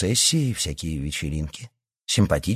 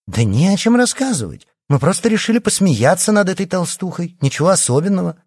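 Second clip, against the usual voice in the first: dismissive; 11 semitones higher, 4 dB louder than usual. Acted. Liya dismissive, heated argument.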